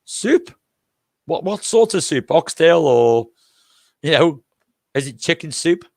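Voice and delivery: hammed-up confusion over soup; mock puzzled customer. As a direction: play dumb about the soup. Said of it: "just say to him".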